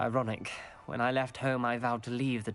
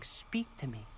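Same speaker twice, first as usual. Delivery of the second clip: softer, hushed quote; quoted whisper; 6 dB quieter than usual. Retold or imitated. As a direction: lightly imitate a whispering voice. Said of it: "I hear a whisper saying".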